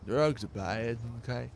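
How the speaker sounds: Mackie. Acted. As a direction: repeat the catchphrase as a light impression. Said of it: "Do the Mackie voice".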